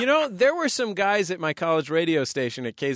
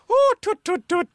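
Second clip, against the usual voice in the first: put-on Irish accent; 13 semitones higher, 4 dB louder than usual. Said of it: "is it like an".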